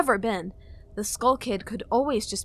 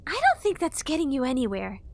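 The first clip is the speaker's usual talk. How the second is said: dry remark; 5 semitones higher than usual. A narrator's reading. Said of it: "commented Tattle dryly".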